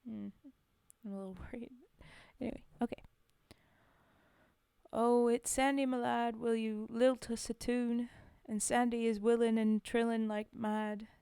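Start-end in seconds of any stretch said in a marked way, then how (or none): 4.9-11.1 put-on loud Scottish-accented verse reading; lilting Scottish accent, projected. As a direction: recite it out strongly in a Scottish accent. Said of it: "it's Scottish".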